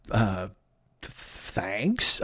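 awkward thanks. Retold or imitated. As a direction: let the thanks fall flat and unsure. Awkward reply to backhanded compliment.

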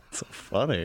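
choked on water, coughing. Real, not acted. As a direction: talk while clearing water from throat. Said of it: "water went down the wrong way".

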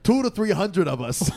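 drawn-out New York impression; old New Yorker accent. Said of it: "old New Yorker".

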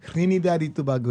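"Trinidad y Tobago" with Spanish vowels; Spanish-style pronunciation. Shown as a demonstration. Guest giving the correct name, Spanish-style "Trinidad y Tobago". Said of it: "is correct".

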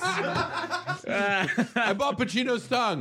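high slow shouting Pacino; Pacino impression. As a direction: yell it like Pacino.

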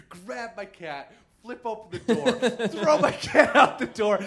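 ordinary talk

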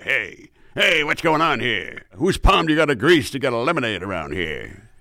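a touch of a brash Phil Hartman huckster; breezy schmoozer asking who to bribe; Phil Hartman type. Acted. William Henry Harrison voice, brash and breezy. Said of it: "like a Phil Hartman kind of character".

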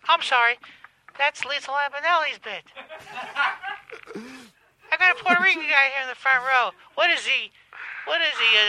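stand-up comedienne impression; Kathy Griffin. Comedienne picking on the front row, in an impression voice. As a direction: work the crowd in a put-on comedienne voice. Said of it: "This is at least Lampanelli's voice".

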